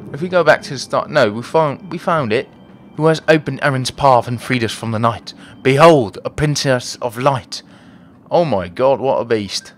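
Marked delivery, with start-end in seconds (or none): 3.0-7.6 declaiming like a fantasy herald, lightly; mildly theatrical proclamation; lightly voiced game character. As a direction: hit BEHOLD loud and grand. Reads game characters' lines.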